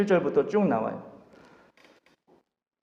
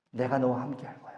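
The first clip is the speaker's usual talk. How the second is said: softer and lower, tender reassurance; soft gentle voice; 6 semitones lower, 11 dB quieter than usual. Acted. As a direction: comfort him quietly. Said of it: "부드러운 소리라는 거야". (부드럽게 안심시키는 목소리)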